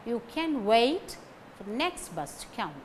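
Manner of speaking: "wait" and "next" stressed. Shown as a demonstration. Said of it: "Wait and next carries stress".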